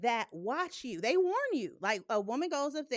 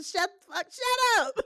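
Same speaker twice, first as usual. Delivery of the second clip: higher, louder shut up; retold scolding; 8 semitones higher, 7 dB louder than usual. Host retelling telling sisters off, loud scolding. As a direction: bark it at them. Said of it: "I told all of them".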